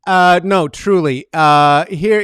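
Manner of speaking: ordinary delivery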